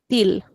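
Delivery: til as teel; final-L variant. Shown as a demonstration. Teacher lists allowed names, til with final L. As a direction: til with hard t, L sounded. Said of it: "or you can call it".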